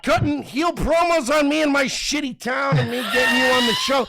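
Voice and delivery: mock-outraged shouting at his co-host; heated shout. Real, not acted. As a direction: drag it out, shouting him down. Continued mock feud shouting.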